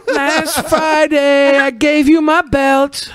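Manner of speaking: breaking up mid-sentence; laughing. Real, not acted. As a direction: laugh out the line in disbelief. Laughing about a spanking.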